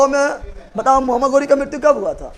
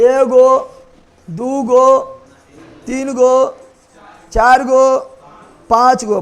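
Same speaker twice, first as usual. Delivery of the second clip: loud counting; 4 dB louder, much slower than usual. Shown as a demonstration. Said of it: "counting dynasties aloud".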